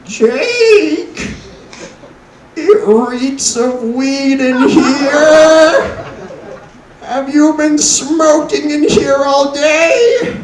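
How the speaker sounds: put-on high, slow, old Jewish grandma voice, scolding; Jewish grandma accent. Grandma scolds grandson for smoking weed in her attic, high Jewish accent. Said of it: "this is my grandma accent".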